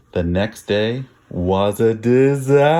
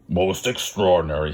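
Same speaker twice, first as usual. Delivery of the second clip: doctor's exclamation; 4 semitones lower than usual. Acted. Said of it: "he exclaimed".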